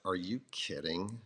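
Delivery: soft, dry mock of her reply; mock flat reply. Husband mocking how his wife answered his invitation, soft and dry. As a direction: imitate her as cold and dismissive. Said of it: "Brian has a different version of how I said that".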